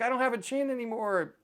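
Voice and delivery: high, loud mock wail; mock crying. Dad imitating daughter traumatized by nothing, mock crying. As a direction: imitate a hysterical tearful complaint. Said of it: "crying, saying".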